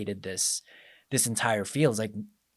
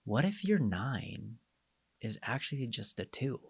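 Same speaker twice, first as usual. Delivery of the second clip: non-judgmental, curious; 7 dB quieter than usual. Retold or imitated. Life coach gently probing a client, softly curious. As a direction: ask it gently, without any judgment. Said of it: "said it with a non-judgmental voice and more of a curious voice".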